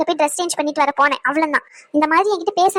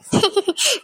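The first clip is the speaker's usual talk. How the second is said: higher-pitched crying sobs; sobbing; 4 semitones higher than usual. Acted. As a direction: burst into sobs in mother's arms. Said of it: "சரி சரி, அழுவாத". (விம்மி அழுகை)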